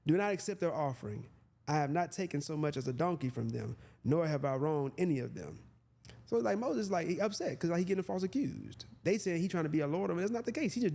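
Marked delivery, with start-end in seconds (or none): 0.1-5.6 measured Bible reading voice; scripture reading. Acted. Preacher reads the verse to listeners, measured. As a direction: read it out as holy text.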